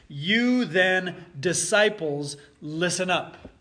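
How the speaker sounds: "You then, disciples, listen up" with punch on "You"; a firm call to attention; emphatic command. Shown as a demonstration. Jesus telling the disciples to listen, emphatic. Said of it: "That's how I would interpret".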